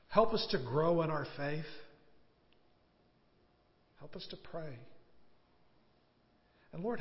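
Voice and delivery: earnest pastor's prayer, rising and falling; closing prayer. Acted. Pastor leads the standing congregation in prayer, fervent. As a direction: pray aloud for the congregation, heartfelt.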